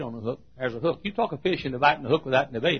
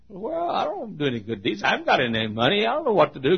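higher-pitched helpless protest; whiny excuses; 7 semitones higher, 3 dB louder than usual. Acted. Man making excuses to God, protesting. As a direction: plead helplessness in a high voice.

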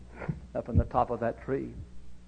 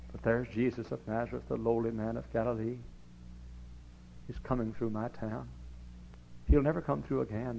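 hushed preaching; 5 dB quieter than usual. Acted. Preacher hushing the church for Zacchaeus' moment. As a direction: draw them in quietly. Quiet intense sermon climax.

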